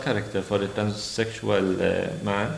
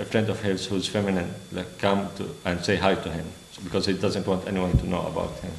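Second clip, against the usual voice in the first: ordinary delivery, nothing marked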